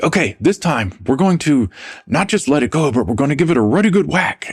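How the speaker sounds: high-pitched imitation of a British professor; British accent. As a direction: mimic a British lecturer, pitched well up. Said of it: "you know, in his accent".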